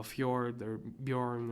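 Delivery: "fjord" and "Bjorn" with J said as Y; "fjord" and "Bjorn", each with a y-glide after the first consonant. Shown as a demonstration. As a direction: say fyord for "fjord", byorn for "Bjorn". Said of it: "J's mean a Y".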